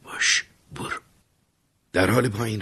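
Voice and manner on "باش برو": muttered whisper. Acted. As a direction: breathe it out as a weary goodbye. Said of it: "آهسته و آروم زیر لب گفت".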